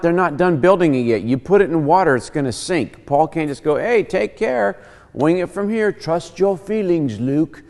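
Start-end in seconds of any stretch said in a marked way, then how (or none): 3.8-7.6 higher, drawn-out carefree farewell; breezy mock send-off. Paul jokingly sending the church off, breezy mock farewell. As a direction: wave them off with easy, airy advice.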